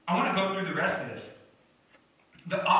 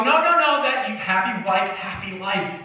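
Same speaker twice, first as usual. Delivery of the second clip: mocking the world; 4 semitones higher, 5 dB louder than usual. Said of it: "They go".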